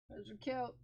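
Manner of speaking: soft cooing pet praise; soft pet talk. Real, not acted. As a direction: coo it gently. Praising dog, repeated louder.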